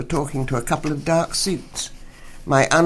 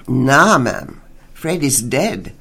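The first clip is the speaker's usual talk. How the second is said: louder blunt officer with broken English; blunt policeman; 6 dB louder, slower than usual. Acted. Officer tells the widow her husband died, blunt. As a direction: deliver the news flat and heavy, slow at the end.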